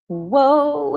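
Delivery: high, loud drawn-out pirate call; a hint of a pirate's long "whoa"; cartoon pirate. Streamer trying the show's pirate, high pirate call. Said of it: "he says".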